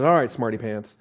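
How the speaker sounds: teasing, knowing put-down; sanctified sarcasm. Acted. God teasing Job, lightly sarcastic. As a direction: call him smarty pants with a wink. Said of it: "when he calls Job out".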